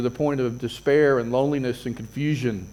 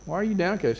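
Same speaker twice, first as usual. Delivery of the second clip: a tender repeat, voice softer; softer gentle question; 4 semitones higher, 4 dB quieter than usual. Retold or imitated. God gently asking Cain about his sorrow, softly. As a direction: ask "Why are you downcast?" quietly and kindly. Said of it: "he said".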